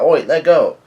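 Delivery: high, loud mock shout; Luffy's retold yell. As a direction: act out a loud protest. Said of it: "Luffy yelling out".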